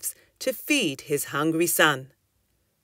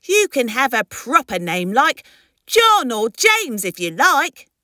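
higher, lilting storybook mum; explaining mother; 6 semitones higher, 5 dB louder than usual. Acted. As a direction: offer a suggestion to a child, pitch lifted.

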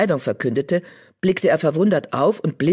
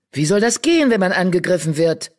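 louder, higher angry hiss; hissing retort; 3 semitones higher, 4 dB louder, faster than usual. Acted. Graustreif hissing at Feuerstern, mock-angry warrior. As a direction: spit it back in defiance. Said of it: "fauchte Graustreif".

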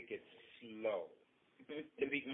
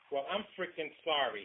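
blurted; 3 semitones higher, 4 dB louder than usual. Acted. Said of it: "he blurted".

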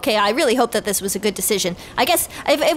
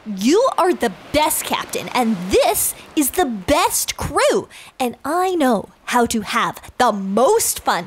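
Mermaidia; slower than usual. Acted. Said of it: "Mermaidia is like".

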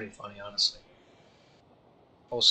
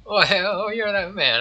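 surprised; 8 semitones higher, 5 dB louder than usual. Acted. Recognizes him in shock.

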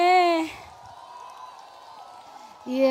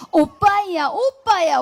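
louder, cute Busan-style 오빠야 call; Busan dialect; 3 semitones higher, 4 dB louder, slower than usual. Shown as a demonstration. Singer trying Busan dialect for the audience, a cute call. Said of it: "부산은 어떻게 해요".

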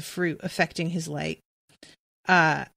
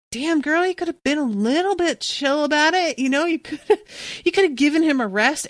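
exasperated plea; 7 semitones higher than usual. Retold or imitated. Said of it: "there is a part of me that's like".

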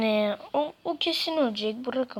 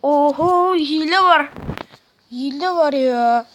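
louder, higher accusing cry; indignant shout; 4 semitones higher, 12 dB louder than usual. Real, not acted. Accusing the game of cheating, indignant shout. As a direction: call out the cheating loudly.

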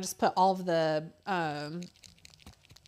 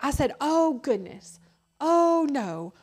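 put-on high, louder innocent kid voice; son's fake excuses; 6 semitones higher, 6 dB louder, slower than usual. Mother imitating her son fibbing to the teacher, high and innocent. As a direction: play the little boy dodging with cute words.

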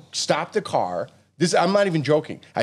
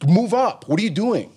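impatient call; 5 semitones higher than usual. Retold or imitated.

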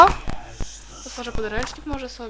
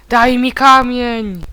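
mock villain demand; 10 dB louder, much slower than usual. Quoting villain's line, slow loud.

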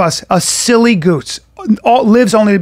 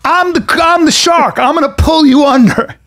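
raised-pitch mock threat; imitating Cooley; 6 semitones higher than usual. Big military friend warning off strangers, imitated mock threat. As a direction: play the big guy announcing himself as the shark. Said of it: "he's so big".

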